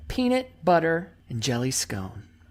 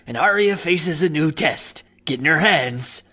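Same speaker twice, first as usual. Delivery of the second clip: pirate voice. Acted. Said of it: "It's just a pirate voice".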